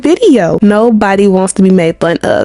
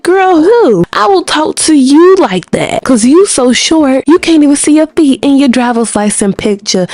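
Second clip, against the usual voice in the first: mock comic roast; 5 semitones higher than usual. Roasting Kim on stage.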